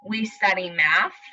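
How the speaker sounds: put-on slow storybook reading to children; reading aloud. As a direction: read it slowly, like to little kids. Teacher reads story aloud.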